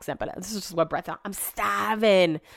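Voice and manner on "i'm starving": bad put-on English accent. Retelling what a drunk man said on the way home, bad English accent as Brett. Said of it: "I'm so bad at doing an English accent".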